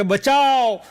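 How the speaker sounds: high loud call of bachav; cry for help. Acted. Bear yelling to children in a panic for help.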